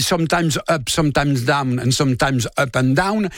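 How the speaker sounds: A singer's lyric in French-accented English. Shown as a demonstration. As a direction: quote the song with a French accent in English, spoken not sung. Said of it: "excusez-moi pour mon accent anglais".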